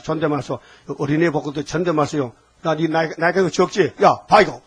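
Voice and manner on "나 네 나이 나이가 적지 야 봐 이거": curt, condescending order to a younger person; rude talking down. Shown as a demonstration. Preacher demonstrates how not to speak to a child, rude and curt. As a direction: talk down to them, rudely. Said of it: "하면 안 돼요".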